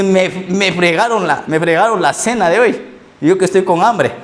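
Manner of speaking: mock complaint. Preacher jokes apostles lost dinner.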